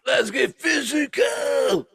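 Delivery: high, slow belted song line; hammed-up diva shout; mock eighties pop diva. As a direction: belt it out like an eighties pop singer. Singing the song title mockingly.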